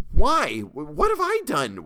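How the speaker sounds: high, loud, broken panicked plea; terrified cry. A narrator's reading. Captive begs the lynch mob, terrified high cry. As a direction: cry out in terror, stumbling. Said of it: "I cried out".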